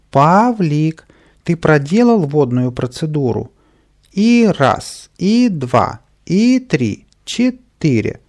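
high, loud, mocking granny voice; grandmother's voice. A narrator's reading. Boy mimicking grandmother leading squats, granny voice. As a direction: mimic a granny counting out exercises. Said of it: "бабушкиным голосом сказал".

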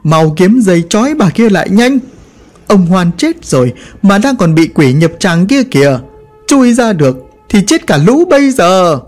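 barked orders, opening sharp and loud; loud shout. Acted. Vinh shouting orders at the villagers to tie her up. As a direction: command the frightened crowd. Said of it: "Ông Vinh quát lớn".

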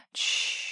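тихое «тш-ш-ш» шёпотом; утешь её, шикнув; успокаивающее шиканье. A narrator's reading. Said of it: "прошептал Рик". (мягкое шиканье)

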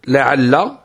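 لعل said slowly, both lams clear with a doubled lam; slow careful pronunciation. Shown as a demonstration. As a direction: spell out لعل syllable by syllable. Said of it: "ينطقون بها هكذا". (نطق بطيء لكلمة لعل)

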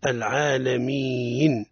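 العالمين with an inserted ya in the long vowel; wrong elongation. Shown as a demonstration. Teacher repeating the mistaken inserted ya. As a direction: stretch العالمين so a ya sound creeps in. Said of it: "يا متحركة بالكسر".

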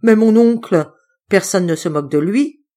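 loud, exasperated protest; a nephew snapping back at his uncle; exasperated outburst. Acted. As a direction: burst out, fed up. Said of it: "dans un sursaut d'exaspération".

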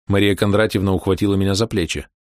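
plain reading voice

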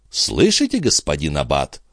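pointed, triumphant exclamation; exclaiming. A narrator's reading. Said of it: "воскликнул Био".

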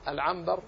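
العنبر said with m before the b; العنبر with the noon turned into meem; spoken m for n. Shown as a demonstration. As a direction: pronounce العنبر as al-'ambar. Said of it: "لكن النطق عنبر".

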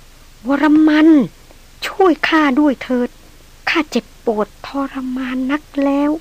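ghostly plea. Retold or imitated. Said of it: "กระแสเสียงของนางผู้พร่ำเพ้อ".

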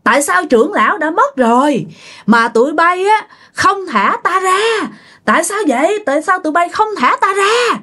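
put-on high, hoarse ghost of an old man; hoarse old man spirit. Possessed aunt demanding answers from the family, hoarse old man voice. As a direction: let a trapped old spirit rasp through the aunt. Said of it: "giọng của mợ cũng khào khào".

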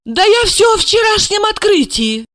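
put-on high, amazed young woman; amazed girl. Asya to Gorokhov, high and incredulous. Asya's voice.

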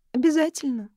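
высоким детским голосом, недовольно; нехотя, упрашивая; капризно. A narrator's reading. Девочка хмурится. (девочка недовольно спрашивает тётю перед сном)

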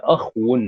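أخو said akh-wun; silent-vowel kha, then waw. Shown as a demonstration. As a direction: close the خ in أخو straight onto a w, ending -un. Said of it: "بإسكان الخاء".

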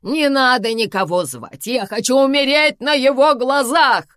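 high, loud dramatic cry; shouting. A narrator's reading. Karina refuses an ambulance, shouting. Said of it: "закричала Карина".

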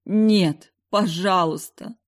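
crying out, pleading; desperate cry. Acted. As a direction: cry out in anguish. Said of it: "Я закричала против воли".

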